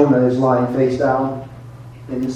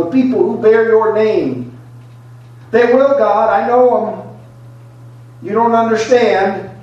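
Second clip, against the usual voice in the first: angry Jonah; 4 semitones higher than usual. Acted. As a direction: rail at God like an offended prophet. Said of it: "Jonah must have said".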